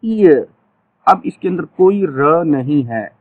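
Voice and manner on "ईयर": ईयर said slowly, a pause after each; demo word. Shown as a demonstration. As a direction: model the word ईयर for students. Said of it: "अब कान".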